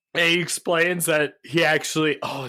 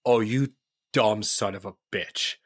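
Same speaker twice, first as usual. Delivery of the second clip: deadpan insult; 3 semitones lower than usual. Retold or imitated. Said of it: "Bruce Campbell just looks and he's like".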